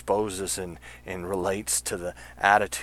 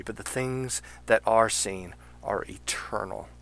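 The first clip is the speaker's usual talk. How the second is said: measured, solemn Bible reading, a little louder; scripture reading; 3 dB louder than usual. Acted. Host reads Second Corinthians to close the show, solemn reading. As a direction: read the verse as if from the pulpit.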